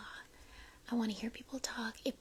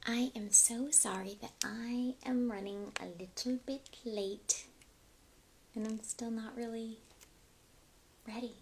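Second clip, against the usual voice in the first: soft ASMR whisper, breath only. Real, not acted. Streamer apologising to viewers, whispering. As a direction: hush it like an ASMR video. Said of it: "why I'm speaking quietly".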